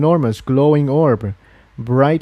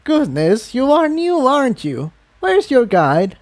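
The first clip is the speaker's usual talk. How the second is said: put-on much higher, fussing elderly voice; goodness, a surprised tut; old mare realizing the filly is new; 11 semitones higher than usual.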